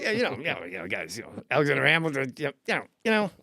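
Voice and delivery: a hint of Colin Quinn, self-interrupting; lightly voiced Colin Quinn rambling. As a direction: ramble and cut yourself off. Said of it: "He's like".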